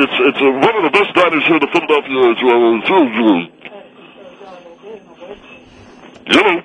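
garbled through banana; talking with mouth full. Real, not acted. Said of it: "I can't understand what you're saying".

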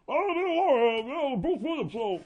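Bruce Williams impression. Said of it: "the guy's all".

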